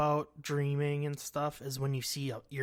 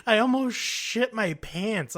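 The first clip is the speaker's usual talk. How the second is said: scared; 7 semitones higher, 6 dB louder than usual. Real, not acted. Telling how scared she was.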